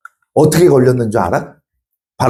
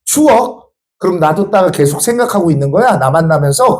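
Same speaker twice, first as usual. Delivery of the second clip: angry. Retold or imitated. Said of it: "얘가 이제 화가 나셨어".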